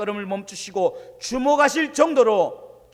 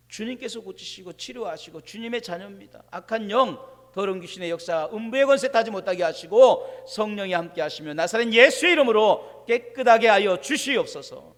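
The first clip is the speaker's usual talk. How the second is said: fervent prayer; 4 dB louder than usual. Retold or imitated. Pastor's retold healing prayer.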